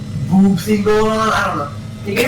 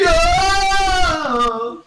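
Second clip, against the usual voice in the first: high-pitched drawn-out cry; mock yell; 6 semitones higher than usual. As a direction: cry out as if being pulled away. Retold yell while sucked in.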